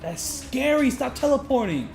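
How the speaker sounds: high-pitched, exclaimed complaint; alarmed protest. Real, not acted. Player begging the boss to stop teleporting, alarmed protest. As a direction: plead loudly with an unfair opponent.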